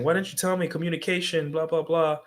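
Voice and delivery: mock whine of a rejected guy; mocking complaint. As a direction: parody the needy guy demanding answers. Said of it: "instead of saying".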